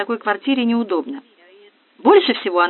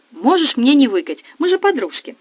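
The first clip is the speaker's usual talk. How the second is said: put-on giddy party girl; 5 semitones higher than usual. Narrator mimics girly tone.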